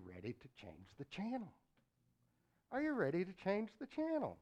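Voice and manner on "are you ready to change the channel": booming repeat. Acted. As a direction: ask it again with fire. Preacher repeats question louder.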